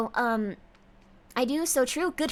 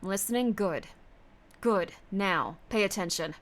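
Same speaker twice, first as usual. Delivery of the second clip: low, measured mock instructor; lowered, deliberate orders; put-on commanding voice; 3 semitones lower than usual. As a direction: demand attention like a stern commander. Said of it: "telling me to talk like this".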